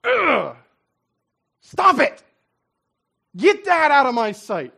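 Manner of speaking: loud, high "Stop it!"; disgusted outburst. Pretend. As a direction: recoil and push it away. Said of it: "you go".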